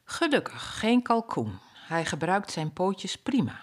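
a fond mother softly admiring her odd chick; mother duck cooing, dropping to a whisper; relieved mother duck. Acted. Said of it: "mother duck relieved, proud".

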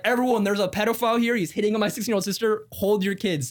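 high-pitched public warning, retold; making a scene. Warning everyone at the restaurant, retold making a scene. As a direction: call out to a crowd, retelling it. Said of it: "I started to make a scene".

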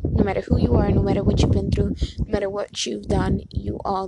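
loud, building pep talk to the viewers; rally everyone, voice swelling; emphatic rally. Real, not acted. Vlogger rallying viewers, loud and emphatic.

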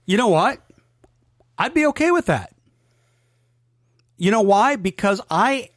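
upbeat emphatic yes; excited. Real, not acted. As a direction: jump in with enthusiasm. Emphatic agreement.

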